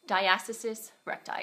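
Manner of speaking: talking with a swollen mouth; words thick from a swollen mouth. Real, not acted. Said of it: "my mouth is swollen with this teeth stuff".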